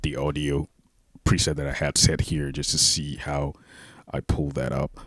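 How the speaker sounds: drenched in room reverb. Real, not acted. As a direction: voice echoing like in a hall. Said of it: "sorry for the reverb".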